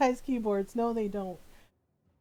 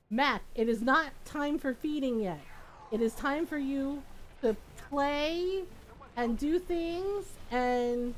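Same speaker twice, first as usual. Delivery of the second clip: higher, patient pet-owner explaining; talking to kitten; 5 semitones higher than usual. Real, not acted. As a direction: lightly scold a pet, drawing out the last words. Addresses her kitten about feeding time.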